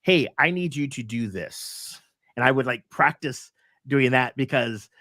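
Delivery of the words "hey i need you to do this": assertive boss. Shown as a demonstration. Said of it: "as a boss".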